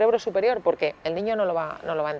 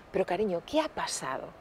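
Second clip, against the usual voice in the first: gentle father; 9 dB quieter than usual. Retold or imitated. Father gently asks calmed daughter.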